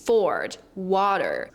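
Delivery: "Forward, water" stretched with a wide-open mouth and strong R's. Shown as a demonstration. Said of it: "opening your mouth more".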